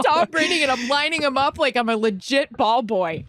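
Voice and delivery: high, giddy, gushing rush of joy; giddy excitement. Retold or imitated. To her dad and sister in the car, high giddy gushing. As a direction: squeal it like the best day ever. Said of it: "And I was like".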